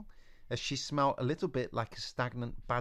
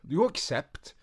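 put-on higher, louder old witch voice; 6 semitones higher, 7 dB louder, slower than usual. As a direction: snap back with dignity.

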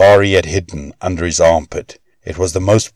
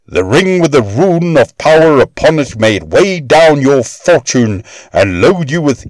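much higher, louder voice casting a curse; cursing dwarf; 7 semitones higher, 3 dB louder than usual. A narrator's reading. Dwarf cursing Loki over the ring, high and loud. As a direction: hurl the curse at him. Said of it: "the dwarf screamed at him".

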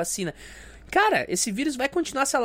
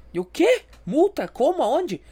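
high, louder startled questions; mock surprise; 5 semitones higher, 4 dB louder, slower than usual. Biker caught off guard by the cop, high mock surprise. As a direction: play dumb, all innocent.

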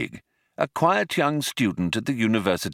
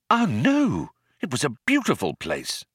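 raised persistent voice; eager Arthur; 5 semitones higher than usual. Acted. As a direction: push on hopefully, trying to impress. Arthur defends Earth.

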